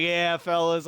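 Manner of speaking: trying to seem casual, slightly overdone; overly casual. Retold or imitated. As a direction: toss it off like you don't care. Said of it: "as casual and just".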